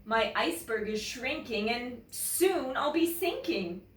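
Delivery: coaxing, slowing at the end; smiling polar bear. Acted. Polar bear asking Bear for somewhere to stay, pleading. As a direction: plead for a new home. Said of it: "he added with a smile".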